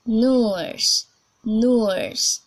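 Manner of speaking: British "nurse", loud, drawn-out rounded vowel; demonstrated British "nurse"; British accent. Shown as a demonstration. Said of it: "we are going to British English first".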